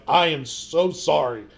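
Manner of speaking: slow, weighted "I am so sorry"; emphatic apology. Retold or imitated. Customer apologizing to shop owner for cussing, emphatic apology. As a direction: draw out "so sorry" word by word.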